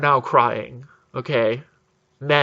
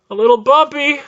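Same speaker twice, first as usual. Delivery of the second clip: much higher, louder mocking repeat; incredulous high echo; 11 semitones higher, 5 dB louder than usual. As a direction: squeal the understatement back in disbelief. Pilot's phrase echoed far higher.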